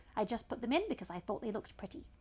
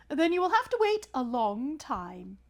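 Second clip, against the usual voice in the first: pompous python, a touch higher; snake voice; 5 semitones higher, 8 dB louder than usual. Acted. Python rock snake addressing the elephant's child, lightly voiced. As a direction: lecture the young traveller grandly.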